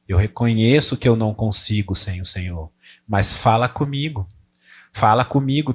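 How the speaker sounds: louvor baixo e reverente; oração. Shown as a demonstration. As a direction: reconhecer a grandeza do Senhor em voz contida. Prayer voiced as example. (oração íntima e reverente)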